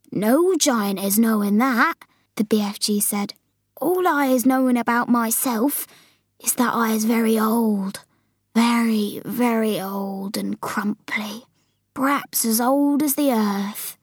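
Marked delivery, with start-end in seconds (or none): 0.1-2.0 slow, drawn-out giant; BFG answering. Acted. Giant telling Sophie no giant knows, patient. 3.8-14.0 lightly voiced old giant, slowing to near whisper; BFG reflecting. Giant describing his great age to Sophie, musing.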